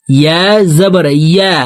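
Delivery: both ইয়া with a clear mid-tongue y; correct ya sound. Shown as a demonstration. Teacher repeats the correction, ইয়া keeping its y glide from mid-tongue. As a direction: make the y of ইয়া with the middle of the tongue. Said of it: "জিহ্বার মধ্যখান থেকে উচ্চারণ হবে".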